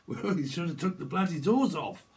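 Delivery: a hint of a film tough-guy line; movie quote. Speaker quoting a famous film line, lightly mimicked.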